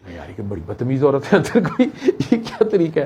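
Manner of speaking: laughing in disbelief at the rude woman. Real, not acted. Laughing while telling friends about the rude wife. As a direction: chuckle through it, voice lifting.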